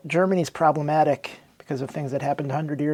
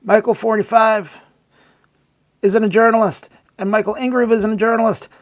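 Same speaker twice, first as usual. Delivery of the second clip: whiny Fremer impression; 4 semitones higher, 5 dB louder than usual. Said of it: "He's like".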